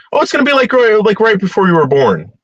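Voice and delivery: high-pitched mocking imitation; mocking quote. Mimicking what people say about death, mocking quote. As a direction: parrot a popular argument in a high voice. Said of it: "I love this one, by the way".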